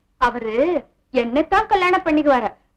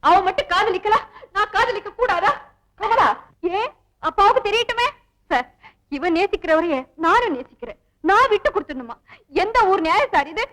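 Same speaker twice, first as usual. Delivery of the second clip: fake tearful pleading. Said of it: "பிரமாதண்டி உன் நடிப்பு".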